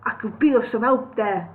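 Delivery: the thrush voice, a second try; retry of the bird voice. Shown as a demonstration. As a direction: rework the bird's line. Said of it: "let me try and get it right".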